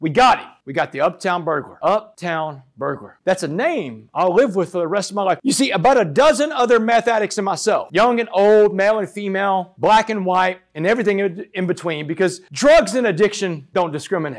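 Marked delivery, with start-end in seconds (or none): none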